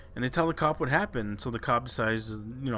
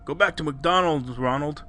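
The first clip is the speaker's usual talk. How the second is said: mild mock yell, pitched up; retold yell; 4 semitones higher than usual. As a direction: toss out a half-yelled heckle. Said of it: "his buddy just yells out of the blue".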